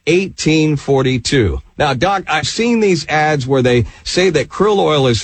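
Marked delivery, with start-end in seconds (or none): 0.1-1.6 slow phone number, group by group; measured announcer read of the digits; slow dictation. Real, not acted. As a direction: give listeners time to write it down. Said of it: "slowly for two free bottles today".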